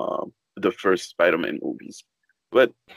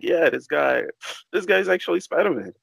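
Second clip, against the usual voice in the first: impressed fan; 8 semitones higher than usual. Retold or imitated. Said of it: "you're like".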